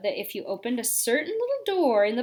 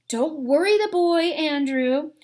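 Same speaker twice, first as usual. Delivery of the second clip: stern aunt; 5 semitones higher, 4 dB louder than usual. Retold or imitated. Aunt voiced shushing her brother.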